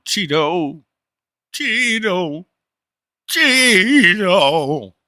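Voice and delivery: high-pitched call for a lost cat; mock psycho calling out a cat; frantic calling. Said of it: "like a fucking psycho, son".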